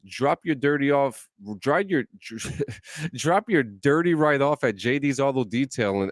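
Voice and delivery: barking ad read like a drill sergeant; drill sergeant radio ad. Acted. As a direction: call out the ad like a drill sergeant commander. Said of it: "Let me get my radio voice ready".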